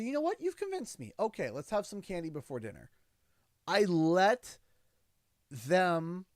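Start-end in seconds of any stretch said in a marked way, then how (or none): 0.0-2.9 high, playful giving in; hammed-up surrender to a kid's argument; mock-convinced dad. Dad giving in to his son, high and playfully convinced. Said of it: "I'll say".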